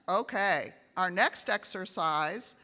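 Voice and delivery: usual speaking voice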